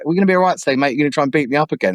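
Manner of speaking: lightly imitated Manchester accent; slight Mancunian voice, retold; Manc accent. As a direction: quote a mate with a hint of Manc. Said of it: "this little Manc accent".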